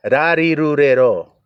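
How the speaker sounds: Rarirurero slowly, tapped Japanese r; Japanese r sounds. Shown as a demonstration. Preacher showing Japanese syllables, slow and deliberate. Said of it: "they have to say ra".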